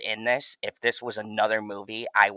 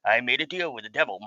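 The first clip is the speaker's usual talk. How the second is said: mustache twirling villain; faster than usual. Retold or imitated. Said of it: "twirling his mustache like".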